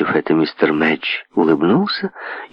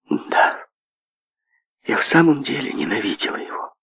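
crestfallen voice; 5 semitones higher, 5 dB quieter than usual. Acted. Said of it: "упавшим голосом".

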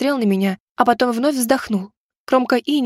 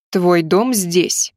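lower, slow and firm; hard-edged man; 4 semitones lower, much slower than usual. A narrator's reading. Man telling the girl where she lives, lower and slow. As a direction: lay down the law, slowly. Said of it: "В его голосе появились жёсткие нотки".

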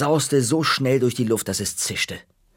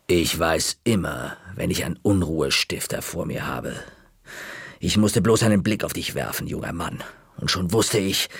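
stern librarian; 5 semitones lower than usual. Acted. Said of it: "sagte Knolle langsam".

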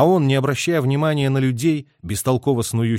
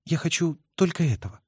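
tender; 5 semitones higher, 4 dB quieter than usual. A narrator's reading. Tender reply.

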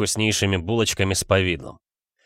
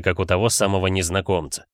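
usual speaking voice

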